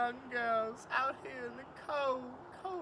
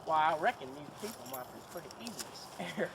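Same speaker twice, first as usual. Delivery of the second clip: sly King; 7 semitones lower, faster than usual. Acted. King planning to scare the folks, low and sly. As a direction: plot it like a smug old crook.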